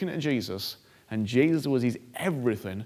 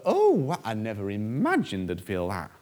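shocked God voice; 5 dB louder than usual. Retold or imitated. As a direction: play God caught off guard, startled. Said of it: "I don't know why he talks like that".

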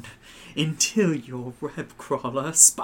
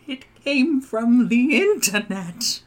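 slow announced title; dramatic title read; 7 semitones higher than usual. Acted.

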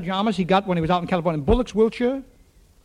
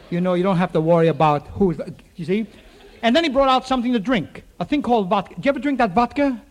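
usual speaking voice

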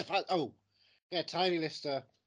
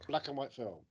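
whisper. Acted. Stage-whispered clue in the game.

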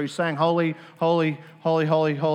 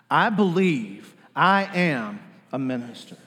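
with conviction; slower than usual. Shown as a demonstration. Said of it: "say it with conviction".

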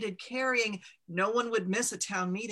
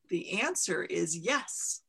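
a recarved mountain giving its first yes; slow mountain voice; 2 semitones lower, slower than usual. Acted. The mountain answering Ma.

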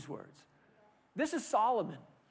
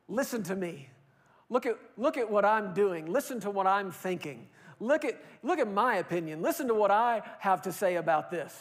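mock attention-seeker calling out; hammed-up look-at-me voice; lightly mocking a social media braggart; self-promoting show-off; 3 dB louder than usual. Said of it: "I call it the".

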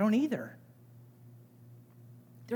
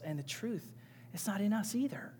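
whispered; 7 dB quieter than usual. Acted. Scripture read softly.

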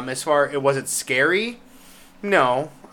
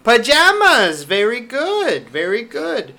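excited praise; 7 semitones higher, 5 dB louder than usual. Real, not acted. Praising a toddler.

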